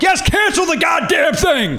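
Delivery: exasperated shout, stretched out slow; retold angry shout. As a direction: finally lose it with the restaurant on the phone. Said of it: "And I finally just went".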